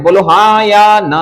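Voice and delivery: slow, stretched call for an answer; drawn-out prompt. Real, not acted. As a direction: stretch the words out to prompt the class. Teasing class for a yes or no. (खींच-खींचकर पूछना)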